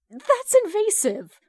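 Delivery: high, slow, weak protest; a weak high-pitched objection; weakly says. A narrator's reading. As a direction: squeak it out feebly. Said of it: "Hal weakly says".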